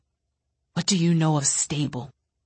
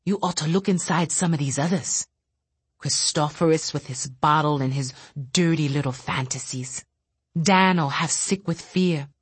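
bitter rant. Acted. Bitter telepath lashing out quietly.

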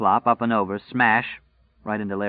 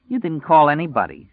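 sullen; 7 semitones higher, 5 dB louder than usual. Acted. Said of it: "she said sullenly".

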